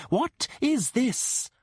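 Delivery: molto più alta e lenta, sbalordita; shock totale. Acted. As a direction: grida lo stupore di chi è scoperto. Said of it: "her utter shock".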